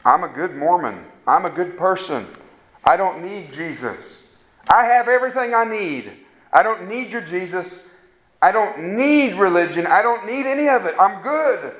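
mock proud unbeliever, lightly voiced; self-satisfied unbeliever. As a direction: shrug off Jesus with a light mocking tone.

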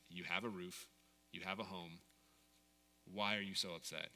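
understated, hushed divine rebuke; gentle reproof. Retold or imitated. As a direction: gently confront someone who is upset, keeping it low. God's gentle rebuke, quoted.

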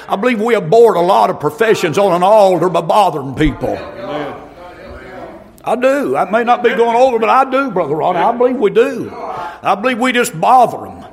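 rising, shouted sermon cadence with punched words; full-force preaching. Real, not acted. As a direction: preach it hard to the congregation.

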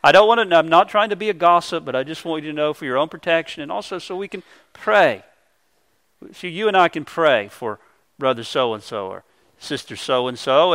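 mock spiritual tone. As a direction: play the falsely pious gossip, softly. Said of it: "put on a kind of a spiritual tone of voice".

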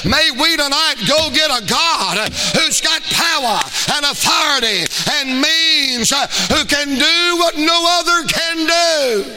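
a preacher's build to a shouted climax; full-force preaching. Real, not acted. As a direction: whip the congregation up till you're shouting. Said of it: "I feel like preaching right here".

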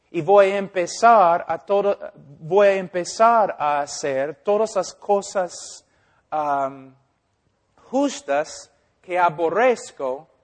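pecador imaginado. Retold or imitated. Pecador imaginado habla al pastor.

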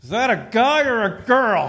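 put-on deaf old father's booming "whisper"; mock a whisper that comes out high and very loud; failed loud whisper. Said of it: "he whispers to me like this".

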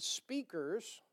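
"speakers" with a nasal northern vowel; northern twang through the nose on "speakers"; northern nasal accent. Real, not acted. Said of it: "my northern accent just really shined right through my nose when I said speakers".

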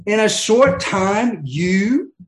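the king brushing Paul off, sarcastic. Retold or imitated. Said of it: "very sarcastic response".

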